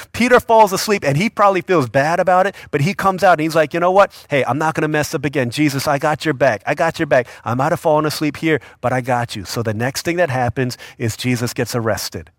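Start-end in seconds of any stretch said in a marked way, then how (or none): 3.7-9.4 eager promise. Retold or imitated. Peter boasts loyalty to Jesus.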